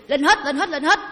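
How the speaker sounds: loud laughing call to climb aboard; mock shouted order. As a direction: herd them up with a hammed-up yell. Ordering ghosts onto the truck.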